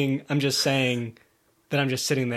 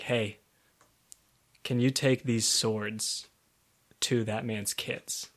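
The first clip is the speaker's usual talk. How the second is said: dying crone; 5 semitones lower, 6 dB quieter, slower than usual. Retold or imitated. Dying crone voiced in retelling.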